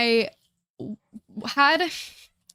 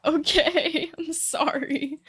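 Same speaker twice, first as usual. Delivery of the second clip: meek apology; 4 semitones higher, much slower than usual. Retold or imitated. Retelling her apology at the lab.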